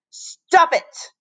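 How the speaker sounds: high, pleading cry; upset cry. A narrator's reading. Ashley begging the teasing children, upset cry. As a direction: cry out to make them stop. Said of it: "cried Ashley".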